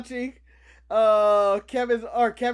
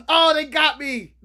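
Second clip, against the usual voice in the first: mock realization, louder; louder exclaim; 6 dB louder than usual. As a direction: blurt it out as a fake shock. Retold inner reaction, exclaiming.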